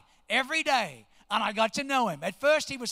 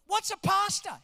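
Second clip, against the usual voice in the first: higher-pitched puzzled question; baffled; 8 semitones higher, 3 dB louder than usual. Retold or imitated. Gas attendant asking the pastor what that is, baffled. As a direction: imitate someone mildly stumped by a word. Retelling man who doesn't know the word.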